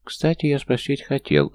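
high-pitched huffy gnome voice; a tiny offended creature defending himself; indignant gnome. A narrator's reading. Gnome protesting to Leona, high huffy voice.

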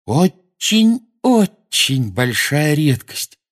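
slow, glowing with delight; beaming. A narrator's reading. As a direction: savor it, beaming with pride. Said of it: "сияя, сказал Невилл".

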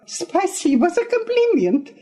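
high, stung sarcastic thanks; spiteful cry. A narrator's reading. Wife answers husband's insult, spitefully. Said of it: "злобно вскричала Елена Ивановна".

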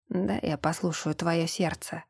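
soft low whisper. A narrator's reading. Брун whispers into Эльза's ear, soft and intimate. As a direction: breathe it close to her ear. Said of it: "прошептал он".

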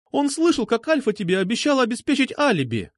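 put-on high-pitched, insistent girl's outcry; agitated, high accusing voice; exclaiming. A narrator's reading. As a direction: exclaim it as damning proof. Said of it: "воскликнула она".

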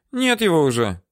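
high, feigned puzzled woman's voice; woman stalling her interrogator; playing dumb. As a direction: ask high, pretending not to know. Woman answering.

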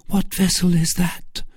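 high-pitched Milady voice; questioning Milady. Acted. Milady asking Felton about the ship, high-pitched. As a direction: ask it high, in character. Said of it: "asked Milady".

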